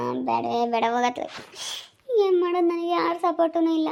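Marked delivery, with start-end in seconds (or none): 2.3-3.9 tearful. Acted. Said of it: "ತುಂಬಾ ಅಳು ಬತ್ತೈತೆ".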